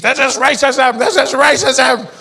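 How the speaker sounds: outraged white protesters. Acted. White people protesting in the streets, mock outrage. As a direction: wail it like an aggrieved protester, dragging the last one. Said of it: "White people in the streets".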